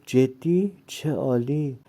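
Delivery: put-on thrilled young girl hearing good news; excited. A narrator's reading. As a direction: squeal it with joy. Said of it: "سارا با ذوق گفت".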